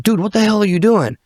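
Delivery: high, baffled demand; imitated incredulous cop. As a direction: mimic a cop who can't believe it. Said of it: "he's like".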